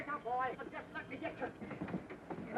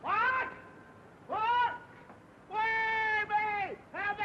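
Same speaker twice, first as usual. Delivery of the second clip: panicked calling out; 5 semitones higher, much slower than usual. Acted. Panicked, unsure where his partner is.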